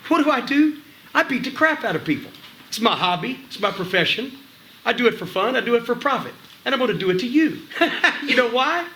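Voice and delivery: high, gleeful villain promo with a laugh; over-the-top heel. Shown as a demonstration. Trainer shows a trainee how a heel threatens, over the top. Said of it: "laugh about it a little bit".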